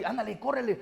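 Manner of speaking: a friend urging you to go for it; pushy encourager. Retold or imitated. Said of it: "la segunda es aquella que te empuja".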